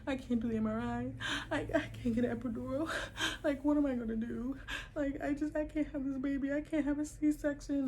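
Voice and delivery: mock panicked rant about the epidural. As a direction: replay the panic of being trapped. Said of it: "So I'm like".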